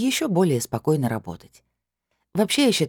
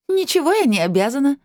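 much higher, louder, scoffing; mocking snort; 12 semitones higher, 4 dB louder than usual. A narrator's reading. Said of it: "насмешливо фыркнула блондинка".

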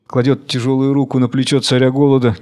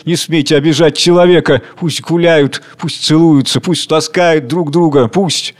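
raised, fervent declamation; impassioned plea; 2 semitones higher than usual. Acted. Worker begs the king not to laugh, impassioned. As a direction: plead with visionary ardour.

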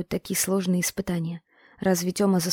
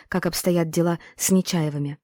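plain reading voice

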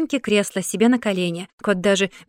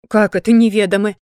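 louder, offended cat voice; indignant cat; 7 dB louder than usual. A narrator's reading. Cat jumping up at Sashka, offended and loud. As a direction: bristle at the insult, voice up. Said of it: "возмущённо подскочил кот".

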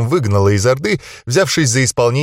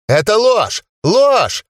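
high shouted denial; furious denial; 10 semitones higher, much slower than usual. Acted. Cornered gnome denies, furious.

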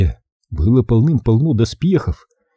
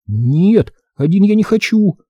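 put-on high, scared little boy; 9 semitones higher than usual. A narrator's reading. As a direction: refuse to be left alone.

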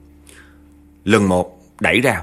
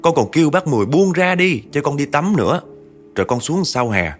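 put-on higher, plaintive young man's voice telling his death; a dead grandson explaining to his grieving grandma, higher and plaintive; dead grandson's lament; 5 semitones higher than usual. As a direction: pitch it up and plead to grandma like a lost ghost.

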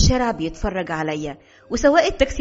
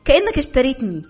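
exploding in anger; 3 semitones higher, faster than usual. Acted. Wife choosing work over husband, bitter angry outburst. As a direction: let it all burst out. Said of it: "وأنا أنفجر فيه بطريقة لم".

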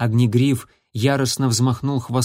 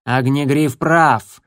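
slow, stern and louder; an old medicine cat snapping in agreement; cross, deliberate and firm; angry voice; 4 dB louder, slower than usual. Acted. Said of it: "сердитый голос Щербатой".

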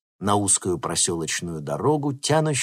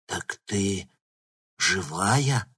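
babbling; much slower than usual. A narrator's reading. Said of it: "пролепетал он".

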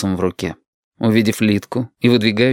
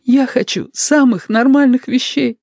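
much higher, slow, tearful; tearful plea; 3 dB louder than usual. Acted. Lidka pleads with Shut through tears, much higher.

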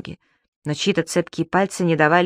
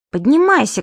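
loud, higher call from below; commanding shout; 7 semitones higher, 4 dB louder than usual. Acted. Субастик calls up to his father on the post, commanding loudly. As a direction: bark the order up at him. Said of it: "командовал снизу Субастик".

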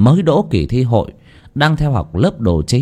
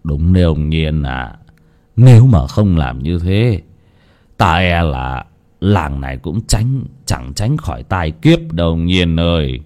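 resolute; 5 semitones lower than usual. Acted. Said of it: "nhìn lão Nhiên quả quyết".

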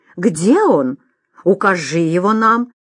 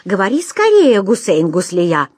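impatient demand; 3 dB louder than usual. Acted. Emir urges impatiently.

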